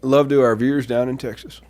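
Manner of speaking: lightly put-on Texas accent. Host addresses Texas viewers, lightly putting on Texas accent. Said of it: "let us know if this accent is correct".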